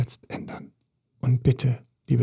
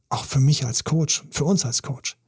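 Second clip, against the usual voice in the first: normal talking voice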